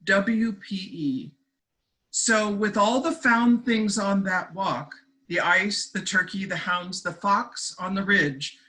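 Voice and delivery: deliberate storytelling recital, pausing between lines; poetry reading. Acted. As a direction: lift each opening phrase, let the endings settle. Reads own poem aloud.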